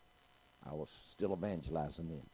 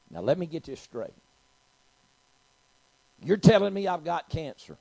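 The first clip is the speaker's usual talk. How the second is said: loud, high-pitched disbelief; incredulous challenge; 10 semitones higher, 14 dB louder than usual. Retold or imitated. Patient questioning her doctor's diagnosis, loudly incredulous. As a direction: confront the doctor point by point.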